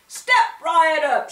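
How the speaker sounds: loud, high, slow barker call; shouted pitch. A narrator's reading. Shopkeeper calling from store steps, loud showman shout. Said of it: "shouted Willie Withet".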